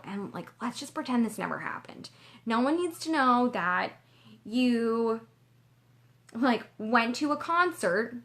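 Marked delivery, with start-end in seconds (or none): 2.4-8.2 a light conspiratorial whisper; whispered secret. Retold or imitated. Her inner critic urging her to hide it, whispered. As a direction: hush it like a secret.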